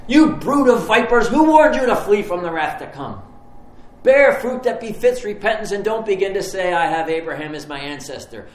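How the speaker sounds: John the Baptist as a Southern preacher, hollering at the crowd. Retold or imitated. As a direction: thunder at the crowd like a revival preacher. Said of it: "sounds like this great Southern Baptist preacher".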